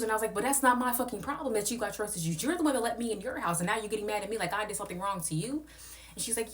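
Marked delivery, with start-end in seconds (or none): 0.3-5.7 high indignant rant at the host; heated retort. Retold or imitated. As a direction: tell her off, pitched up. Own retort in heated argument.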